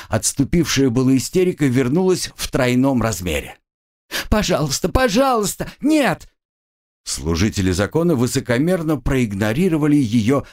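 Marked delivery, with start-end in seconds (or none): 4.3-6.3 rising to a high shouted no; hysterical screaming plea. Acted. Katya tied to the post, screaming hysterically. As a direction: hysteria tripling as she's bound.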